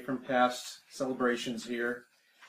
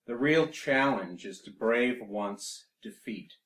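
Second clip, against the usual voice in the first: measured, solemn sonnet reading; poetry recitation; 4 dB louder than usual. Acted. Poet reads a political sonnet to an audience, measured recitation. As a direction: declaim each line, then pause.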